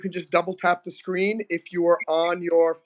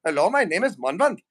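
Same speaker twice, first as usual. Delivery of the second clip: lightly put-on Indian accent; a mild Indian accent, hamming up a lecturer; Indian accent character; 3 semitones higher than usual. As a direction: Indian accent comedy character introducing himself. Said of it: "gonna create a character named Manvant".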